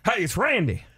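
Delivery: a hint of a rough country singer saying hi; mock gravelly greeting; gravelly Randy impression. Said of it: "a little more gravelly".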